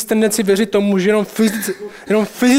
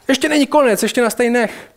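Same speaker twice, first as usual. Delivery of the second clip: higher-pitched, lightly acted begging; bargaining demon; 5 semitones higher than usual. Demons bargaining with Jesus to let them stay, mock pleading. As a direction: plead for a little more time, imitating a demon. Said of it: "začne žadonit a smlouvat s Ježíšem".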